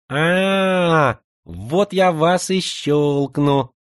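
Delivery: put-on high lisping boyish voice, drawn out; slushy sh for s. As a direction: lisp every s into a slushy sh. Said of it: "своим шепелявым голоском".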